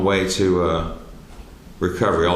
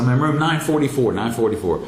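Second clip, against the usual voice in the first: higher, raised-voice imitation of calling out; retold calling out; 5 semitones higher than usual. Patient telling searchers his room through closed door, retold call.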